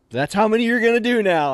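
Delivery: stern ruling, acted out; sergeant's order. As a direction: lay down the punishment like a sergeant. First sergeant imposes the punishment.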